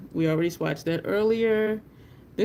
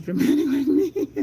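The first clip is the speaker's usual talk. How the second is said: high, louder words breaking into laughter; laughing while talking; 9 semitones higher, 6 dB louder than usual. Real, not acted. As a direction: crack up as you say it. Cracks up over her nephew.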